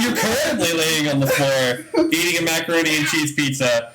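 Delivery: muffled, bad-connection audio; sounding like underwater. Real, not acted. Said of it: "you sound like you're underwater".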